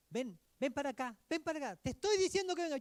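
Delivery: increasingly impatient summons that speeds up; impatient calling. Retold or imitated. Parent calling a child. (madre impaciente llama al niño)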